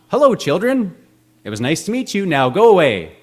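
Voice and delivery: high, loud mock French guard accent. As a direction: ham up a snooty French accent for a cartoon guard. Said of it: "have a French accent".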